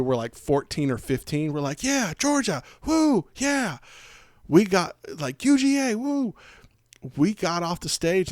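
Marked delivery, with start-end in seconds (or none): 1.8-6.3 much higher mock teen cheer; hammed-up whooping fans. The teen girls cheer for Georgia, high mock whoops.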